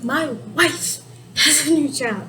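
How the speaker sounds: "wife" held out, then a break; stress on wife. Shown as a demonstration. Teacher repeating how the topic sounds, "wife" stressed and held. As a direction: set "My wife" apart before "has a new job". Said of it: "that's how it sounds like".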